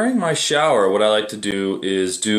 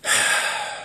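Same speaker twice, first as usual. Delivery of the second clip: sigh; 4 dB quieter than usual. Real, not acted. Pauses mid-thought about facing challenges.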